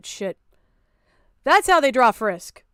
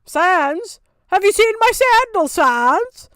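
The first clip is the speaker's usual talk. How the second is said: put-on British accent; 5 semitones higher, 3 dB louder, much slower than usual. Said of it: "That was so British".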